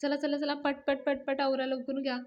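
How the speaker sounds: bustling, upbeat urging; energetic hustling. Acted. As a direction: hurry everyone along with lively energy. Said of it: "खूप energy छान आलेली".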